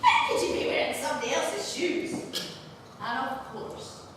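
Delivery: loud, high broad Scottish wife scolding; furious Kate O'Shanter. Acted. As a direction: tear into the drunk husband in broad Scots. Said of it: "Just as I imagined Kate O'Shanter did".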